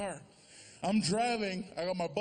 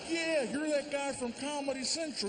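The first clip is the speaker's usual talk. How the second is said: a cop, voiced a little higher; lightly voiced cop; 3 semitones higher than usual. The cop spotting a famous comedian, lightly voiced and friendly. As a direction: recognize him, friendly. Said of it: "He's like".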